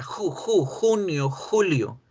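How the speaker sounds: "ju" with throat friction, then "junio", "julio"; "julio" starting with a raspy Spanish h. Shown as a demonstration. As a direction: model "junio" and "julio" with jota. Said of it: "yo las hago con J".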